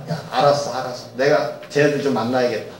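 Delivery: low, soft and easy, just giving in; calm a worried servant; a soft, understated divine answer; gentle God voice. Retold or imitated.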